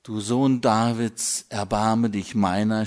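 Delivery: blind man's cry. Retold or imitated. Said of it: "schrie der Blinde".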